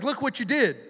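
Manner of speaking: high-pitched mock exasperation; Jonah, frustrated. Prophet praying to God, mock-frustrated. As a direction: blame God in acted frustration. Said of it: "he's so frustrated".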